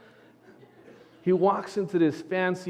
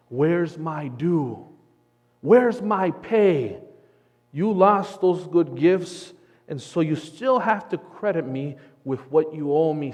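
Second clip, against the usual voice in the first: demanding Lord; 6 dB louder than usual. Acted. The Lord to sinners, stern demand. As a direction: call in a debt with stern authority. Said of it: "says the Lord to us".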